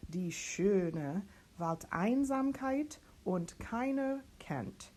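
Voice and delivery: slow, carefully spoken German text; teacher reads the whole page back; slow German diction reading. Shown as a demonstration. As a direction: read each German word slowly and clearly. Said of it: "Practicing this whole page".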